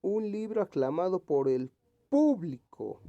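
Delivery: público with PÚ high, loud and stretched; slow reading that punches the first syllable of público; público said emphatically as PÚblico; stress on first syllable. Shown as a demonstration. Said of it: "Vamos a leer".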